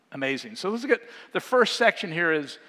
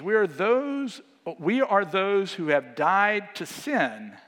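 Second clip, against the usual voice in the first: slow, measured Bible reading; a gentle preacher's reading voice; scripture reading. Acted. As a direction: read the verses deliberately. Reads scripture passage aloud.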